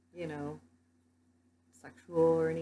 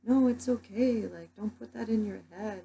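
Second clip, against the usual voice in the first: reassuring; 4 semitones higher, 4 dB louder than usual. Retold or imitated. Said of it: "I told everyone".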